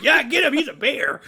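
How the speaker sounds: high, excited sidekick cheering; Boo Boo Bear. Pretend. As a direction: egg him on from behind as a little sidekick. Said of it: "your Boo Boo going behind you".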